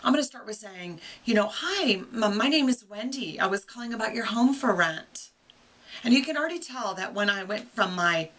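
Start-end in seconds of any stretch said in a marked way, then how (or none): 1.5-5.3 sweet phone voice. Shown as a demonstration. Lesson to investors showing the sweet phone greeting voice. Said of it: "teaching voice with you to my phone voice".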